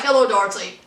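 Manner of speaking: put-on a light British accent on the greeting; clipped British hello, lightly done; imitating British accent. Tom greeting Darcy on the phone, mock British accent. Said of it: "Now, that's a British accent".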